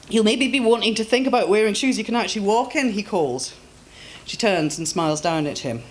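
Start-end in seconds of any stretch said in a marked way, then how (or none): 0.1-2.9 concerned Scottish man. Acted. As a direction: check on the fallen woman like a gruff kind Scot.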